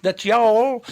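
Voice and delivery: very high, very slow mock Southern drawl. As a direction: stretch it out like a Southern belle. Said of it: "these Southerners really lay in".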